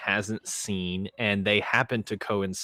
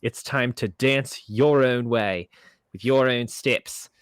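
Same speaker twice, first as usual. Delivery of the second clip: announcer voice; 3 semitones higher, 4 dB louder than usual. Acted. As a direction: announce it like a showman. Host announces the film dramatically.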